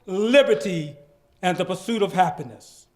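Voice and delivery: dramatic reading. Shown as a demonstration. Reading Martin Luther King's speech aloud with full pathos. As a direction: deliver the speech with pathos and gravity. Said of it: "I would like to capture some of the pathos".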